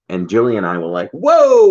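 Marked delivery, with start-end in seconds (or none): 1.1-1.7 high, loud startled whoa; a big hammed-up whoa; mock shock. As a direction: jump in mock surprise. Shocked reaction retold.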